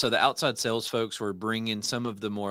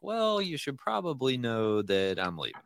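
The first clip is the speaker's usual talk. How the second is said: reluctant admission; 4 semitones higher than usual. Retold or imitated. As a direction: start high and slide down into the news. Imitates employee breaking awkward news.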